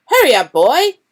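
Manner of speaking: loud angry bark from the kitchen; shout. A narrator's reading. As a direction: yell at the boy. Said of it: "shouted Uncle Vernon".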